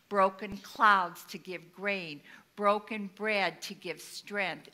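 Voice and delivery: slow, measured scripture reading; solemn reading. Acted. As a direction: read it like a sermon text, slowly. Reads a scripture passage slowly.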